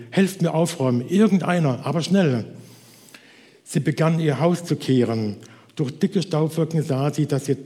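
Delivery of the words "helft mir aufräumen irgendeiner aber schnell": urgent call. Acted. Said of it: "rief sie".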